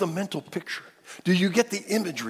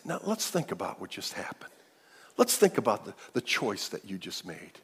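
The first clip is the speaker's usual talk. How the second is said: gentle parent; 6 semitones lower, 4 dB quieter than usual. Acted. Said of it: "Like a loving parent".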